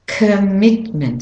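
commitment with a weak "kuh" and strong MIT; stress on MIT. Shown as a demonstration. Teacher demonstrating the stressed syllable, MIT in commitment. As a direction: hit the middle of commitment. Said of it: "So the mit".

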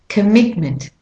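commitment with the beat on MIT; stress on MIT. Shown as a demonstration. Teacher showing the heavier beat, MIT stressed in commitment. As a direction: punch the second syllable of commitment. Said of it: "heavier on the mit".

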